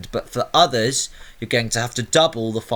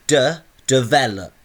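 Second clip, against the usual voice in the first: DEVELOP with the middle syllable, ve, stressed after a lone de; 2 semitones higher, 4 dB louder than usual. Shown as a demonstration. Teacher finding the stressed syllable, emphasis on ve. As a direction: sound out "de", then "develop" leaning on VE. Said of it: "my ve sound is where I go up in pitch".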